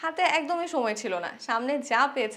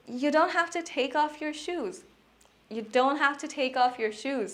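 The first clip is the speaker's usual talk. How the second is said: slow model sentence; much slower than usual. Shown as a demonstration. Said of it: "ইংরেজিতে বলতে পারি".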